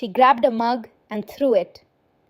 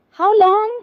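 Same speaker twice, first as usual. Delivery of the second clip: sharp, much higher cry of disbelief; shocked question; 10 semitones higher, 5 dB louder than usual. A narrator's reading. Mother hearing the prognosis from the doctor, shocked. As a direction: blurt it out, stunned.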